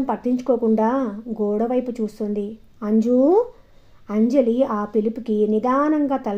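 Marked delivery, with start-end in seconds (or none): 2.8-3.4 calling out. A narrator's reading. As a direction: call the name, louder. Grandmother calls the girl. (మనవరాలిని పేరుతో గట్టిగా పిలుస్తూ)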